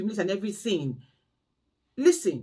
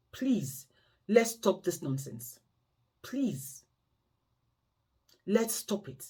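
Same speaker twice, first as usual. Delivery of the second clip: quiet, earnest plea, almost hushed; soft pleading; 2 semitones lower, 6 dB quieter, much slower than usual. Real, not acted. Vlogger begging viewers to stop overworking, softly pleading. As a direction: beg them gently to stop. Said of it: "I'm pleading".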